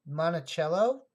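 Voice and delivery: Monticello with a ch sound, tentative rise; corrected pronunciation. Shown as a demonstration. Coin collector retrying Monticello for chat, tentative Italian pronunciation. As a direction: try Monticello the Italian way, ch not s. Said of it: "Is that better?".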